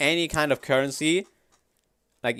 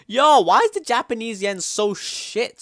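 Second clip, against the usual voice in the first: higher and louder, indignant; loud outrage; 10 semitones higher, 8 dB louder than usual. Real, not acted. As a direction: shout it out in mock outrage. Shocked at the exchange rate.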